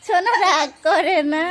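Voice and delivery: slow laughing reassurance; laughing soothing. Real, not acted. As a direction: chuckle while calming her down. Soothing crying child, laughing.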